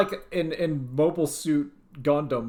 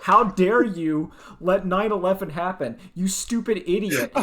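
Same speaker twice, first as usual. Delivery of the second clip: mock outrage; 3 semitones higher, 3 dB louder than usual. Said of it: "his whole thing is saying".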